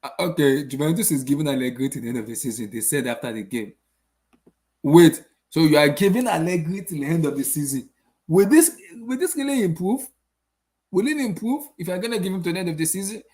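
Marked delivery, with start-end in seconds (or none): 4.8-12.4 rising higher and louder in disbelief; can't believe what he's hearing; incredulous disbelief. Real, not acted. Vlogger reacting to Allegri staying till season's end, incredulous rising disbelief. Incredulous at club decision news.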